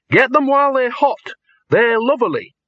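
high-pitched hawking call; street vendor's cry. A narrator's reading. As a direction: cry your wares to passers-by. Dean mimics a street vendor.

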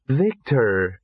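lightly voiced sweet greeting; sweetly. A narrator's reading. Entranced Ginger turns and greets Victor, sweetly. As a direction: say the name with a touch of sweetness. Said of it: "she said sweetly".

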